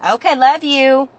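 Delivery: slow, loud affectionate goodbye. Real, not acted. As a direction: call goodbye warmly and loudly.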